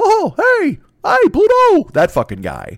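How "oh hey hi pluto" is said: loud, very high, slow, drawn-out cheerful voice. Riffing on how rich and happy Mickey is, doing a Mickey Mouse voice. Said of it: "And he has that voice".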